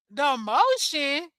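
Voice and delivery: slow rising disbelief; slow scornful question; incredulous. Real, not acted. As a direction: repeat it back like it's ridiculous. Mocking her self-description.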